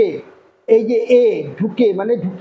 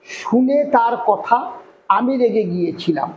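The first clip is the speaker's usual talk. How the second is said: slow dictation. Shown as a demonstration. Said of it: "কি রয়েছে দেখো".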